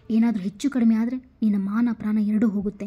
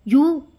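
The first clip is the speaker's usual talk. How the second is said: startled shriek; 5 semitones higher, 7 dB louder, much slower than usual. Acted. She jumps up in shock.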